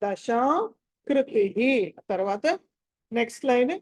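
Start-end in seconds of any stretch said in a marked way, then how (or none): 0.0-1.6 దశాకృతిః slowly, long "shaa" as in Shyamala; "sha" as in Shyamala. Shown as a demonstration. Teacher identifying the sha, దశాకృతిః with Shyamala's "sha". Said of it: "శ్యామల షా ఇది".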